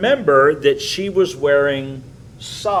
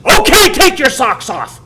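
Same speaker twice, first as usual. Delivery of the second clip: defeated father giving in; 11 semitones higher, 9 dB louder than usual. Retold or imitated. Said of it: "And finally he just".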